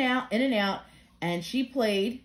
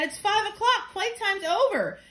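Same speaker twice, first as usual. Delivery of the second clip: cheery sing-song announcement; 10 semitones higher than usual. Acted. Announcing playtime is over.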